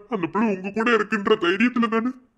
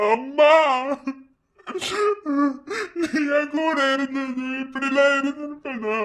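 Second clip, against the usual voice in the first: 1 slow grieving plea; slower than usual. Acted. Son grieving to his dead mother.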